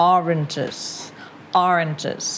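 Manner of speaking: "Oranges" starts on top with OR, then steps down; stress on first syllable. Shown as a demonstration. Teacher models for student, "Oranges" stressed on OR and falling. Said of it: "มันออข้างบน แล้วค่อยๆลงมา".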